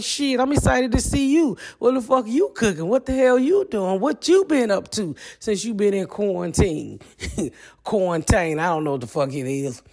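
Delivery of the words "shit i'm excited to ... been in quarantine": excited reply. Retold or imitated. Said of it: "I'm like".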